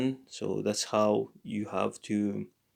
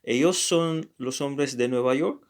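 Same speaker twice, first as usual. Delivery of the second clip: York rising at the end as a question; question intonation; 2 semitones higher than usual. Shown as a demonstration. Teacher repeats the sentence as a question, rising on York. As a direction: ask it, lifting on York. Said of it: "this is another question".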